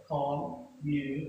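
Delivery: "Communication" started low, syllable by syllable; teacher's demonstration of "Communication" in separated syllables; low starting pitch. Shown as a demonstration. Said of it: "You need to start at the low level".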